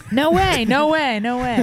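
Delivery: high excited no way, fading down; squeal, then settle. Real, not acted. Excited disbelief.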